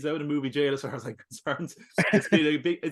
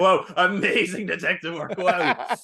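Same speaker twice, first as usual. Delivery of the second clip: high-pitched words through real laughter; laughing hard; 5 semitones higher, 4 dB louder, slower than usual. Real, not acted. Co-host laughing at the film detective's deduction, high and giggly. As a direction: laugh helplessly as you say it.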